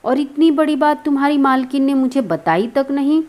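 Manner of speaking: mildly acted disbelief; astonished. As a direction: react as if you just fell from the sky. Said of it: "जैसे आसमान से गिरा।".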